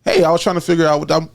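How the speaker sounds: casual laughing retake. Shown as a demonstration. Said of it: "say what you just said with a bitch in there".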